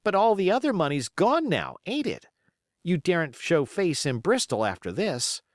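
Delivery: put-on high, doubtful young seaman; young sailor. Young seaman doubting Silver's money, high. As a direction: push back, eager and high.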